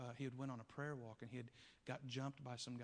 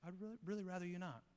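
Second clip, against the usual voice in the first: reluctant stranger; 6 semitones higher, faster than usual. Retold or imitated. Stranger refuses, higher voice.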